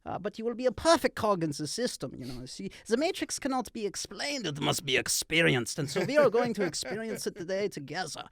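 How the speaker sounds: a hint of a smug globalist lecturing; Klaus Schwab impression. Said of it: "Klaus Schwab telling you why the red pill's bad".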